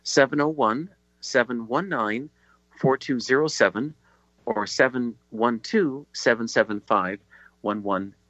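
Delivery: slow repeat of digits, in separated groups; slow, deliberate dictation. Real, not acted. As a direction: pause between groups so listeners can write. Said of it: "I'll speak slowly so you can write it down".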